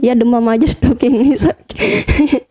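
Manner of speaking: slow, feeble sick-patient voice with a laugh; put-on weak patient voice, laughing through it; faking sick. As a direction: play up being ill for the doctor. Faking illness to doctor.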